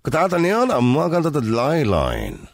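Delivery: exaggerated Dublin accent radio welcome, stretched slowly; strong Dublin accent. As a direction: imitate a radio host's strong Dublin accent, drawing words out. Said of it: "with a strong Dublin accent is".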